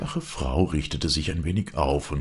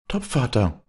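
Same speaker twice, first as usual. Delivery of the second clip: higher, bright calling out to her father; eager cry; 9 semitones higher than usual. A narrator's reading. Daughter bursts in, calling to her father eagerly. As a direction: seize on his word with excitement. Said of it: "rief sie aus".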